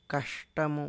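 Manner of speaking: కష్టము with sh made further back; back "sha" sound. Shown as a demonstration. Teacher demonstrating to students, కష్టము with a retroflex sh. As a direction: say కష్టము as "kaṣṭamu", tongue curled back for ష. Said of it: "వెనక నుంచి పలుకుతాం".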